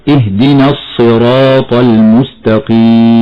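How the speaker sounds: slow, the ص in الصراط heavy but the lips not rounded; the correct heavy sad; heavy sad without rounding. Shown as a demonstration. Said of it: "هكذا".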